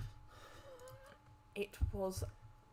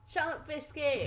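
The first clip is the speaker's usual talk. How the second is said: excited recall; 7 semitones higher, 8 dB louder than usual. Real, not acted. Recalling Aussie slang excitedly.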